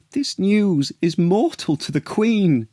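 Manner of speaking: high, wailing grief; mock sob. Paulina grieving as the queen collapses, high wail. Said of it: "sobbed Paulina".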